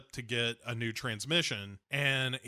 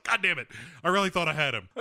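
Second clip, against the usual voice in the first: louder, higher exasperated outburst; mock frustration; 3 semitones higher, 4 dB louder, much faster than usual. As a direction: curse in hammed-up disappointment. Acted frustrated outburst in retelling.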